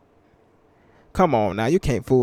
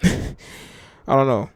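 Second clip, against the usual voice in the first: slow drawn-out chuckling I don't know; laughing; much slower than usual. Real, not acted. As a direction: laugh it out slowly.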